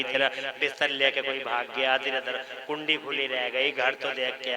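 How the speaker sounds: a hint of a low, soft coaxing Satan; tempting devil. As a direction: murmur like the devil luring him home. Satan tempting a listener away. (शैतान की हल्की, धीमी बहकाती आवाज़)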